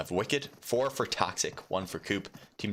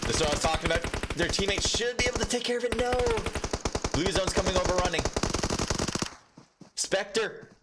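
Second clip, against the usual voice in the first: excited play-by-play; 10 semitones higher than usual. Real, not acted. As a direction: erupt as the play pays off. Match caster erupts at live play.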